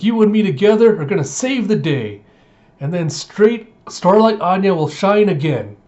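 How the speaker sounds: put-on high, loud childlike rallying cry; rally the dog like a tiny hero; high proud kid declaring victory; heroic little girl. Anya's heroic pep talk.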